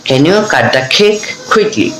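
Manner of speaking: every word of "Can you cut the cake quickly?" drawn out slowly; slow practice sentence. Shown as a demonstration. Teacher drills a practice sentence slowly for learners. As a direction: spell it out slowly for the students. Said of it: "এভাবে কিন্তু আমরা এটা পড়বো".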